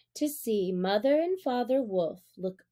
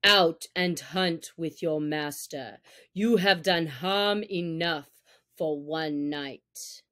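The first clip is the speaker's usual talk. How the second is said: angry; 5 semitones lower than usual. Acted. Father Wolf voiced low.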